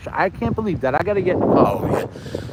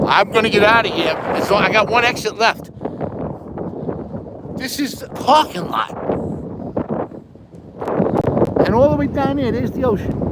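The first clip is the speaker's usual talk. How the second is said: shouting over wind; 4 semitones higher than usual. Real, not acted. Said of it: "you're not gonna hear me, even if I try to talk. So I'm doing it now".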